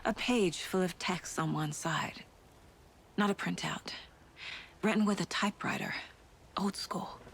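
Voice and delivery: slow, unvoiced musing; whispered inner thought. Detective studying clues, whispering to himself. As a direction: murmur it to yourself as you examine.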